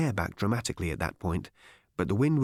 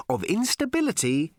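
higher, carefully enunciated; slow, distinct, patient; 8 semitones higher than usual. A narrator's reading. Ford explaining to a baffled Arthur, distinctly and patiently. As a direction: explain it syllable by syllable. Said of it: "as slowly and distinctly and patiently".

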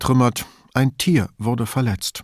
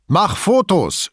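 high, louder, stretched-out shout; schreiend; 8 semitones higher, 5 dB louder, slower than usual. A narrator's reading. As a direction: call out an urgent order. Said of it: "schrie Foa". (laut und hoch gerufen)

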